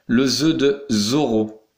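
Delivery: "Zorro" with a clear buzzing Z; voiced Z. Shown as a demonstration. Teacher introducing letter Z, "Zorro" with clear Z. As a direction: sound out the Z starting "Zorro". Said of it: "Une autre façon de faire ze".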